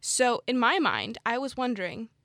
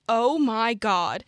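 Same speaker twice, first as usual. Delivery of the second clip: ordinary talk, nothing marked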